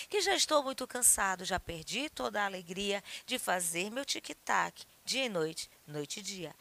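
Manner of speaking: rhythmic poem read with ticking sounds. Acted. Reads Vinícius poem. (leitura rítmica de poema)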